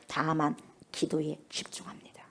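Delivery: slow, hushed whisper on 다만 기도에 집중합니다; whispered take of 다만 기도에 집중합니다. Shown as a demonstration. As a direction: breathe it, intimate and slow. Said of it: "오직 다만 기도에 집중하는 거예요".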